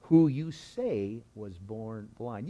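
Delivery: slow, pointed sarcastic question. Acted. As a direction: draw the question out with sarcastic doubt. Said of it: "You could just hear the sarcasm in that".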